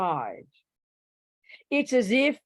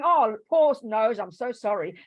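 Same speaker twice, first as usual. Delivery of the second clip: mock sympathetic ear; 3 semitones higher, 5 dB louder than usual. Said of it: "It's going".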